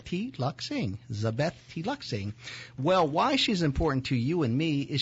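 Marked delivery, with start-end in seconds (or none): 0.0-1.0 T Luck Sing as three separate words, higher; name sounded out. Shown as a demonstration. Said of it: "it's like a cup of tea". 1.7-2.3 "T Luck Sing" said as tea, luck, sing; "T Luck Sing" said syllable by syllable; name sounded out. Shown as a demonstration. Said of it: "it's like a cup of tea".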